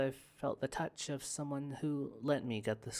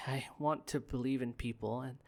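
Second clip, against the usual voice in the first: ordinary talk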